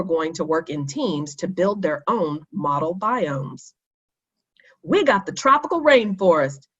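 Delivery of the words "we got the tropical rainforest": a bit higher and louder, pleased; happy announcement. Acted. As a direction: announce the news gladly to friends. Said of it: "Kenny announced happily".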